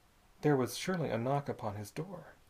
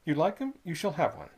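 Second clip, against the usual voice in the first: put-on sly old man offering candy; 3 semitones higher, 4 dB louder than usual. Squids voiced.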